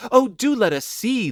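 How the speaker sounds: put-on high, eager children's plea; entreating. A narrator's reading. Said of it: "they entreated".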